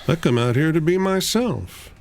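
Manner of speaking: high, soft, breezy voice; a dreamy outsider talking softly; soft distinctive voice. Acted. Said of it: "in a distinctive voice".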